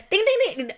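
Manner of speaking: high mouthed synth dings; ping out mock techno noises; imitated techno dings. Showing co-host the German techno, imitated dings. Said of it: "You know that German techno".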